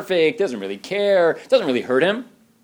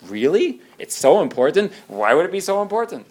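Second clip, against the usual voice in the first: louder mock disbelief on important; incredulous scoff; 5 semitones higher, 5 dB louder than usual. Defensive spouse mocking the request, incredulous. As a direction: scoff at the idea.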